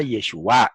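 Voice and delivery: Yeshua stressed on its last syllable, the A; stress on final A. Shown as a demonstration. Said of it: "El acento incluso cambia".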